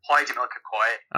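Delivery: "coy" said for cow; Ulster-style "coy"; Northern Irish vowel. Shown as a demonstration. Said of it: "coy kind of sound".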